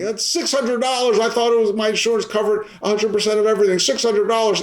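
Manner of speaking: mock-outraged patient griping about the bill; complaining patient. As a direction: voice an indignant patient who was overcharged. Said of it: "a patient's complaining".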